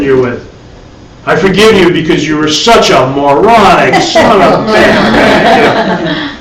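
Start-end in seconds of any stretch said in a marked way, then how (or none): 1.2-6.4 slow, sneering forgiveness with a laugh in it; hammed-up spiteful pardon; mock spiteful forgiveness. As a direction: forgive them while really insulting them. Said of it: "using forgiveness to punish the other person".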